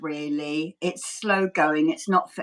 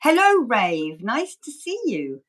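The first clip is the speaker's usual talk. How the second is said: monotone ASMR demo. Shown as a demonstration. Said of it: "Keeping it monotone if I can".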